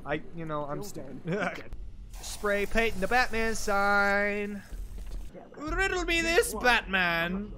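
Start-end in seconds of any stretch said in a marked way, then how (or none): 5.6-7.5 slow, theatrical riddling villain; Riddler voice. Pretend. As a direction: pose the riddle slowly, villain-style. Riddler catchphrase impression.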